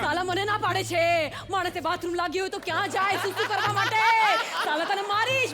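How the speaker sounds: Manjulika ranting in Gujarati, lightly voiced; possessed woman cursing in Gujarati. Judge denied a bathroom break, ranting as a Gujarati Manjulika. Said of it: "Gujarati Manjulika".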